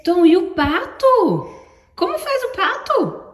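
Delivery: high, slow coaxing question; playful question. Real, not acted. Mother asking toddler the duck sound, high and slow.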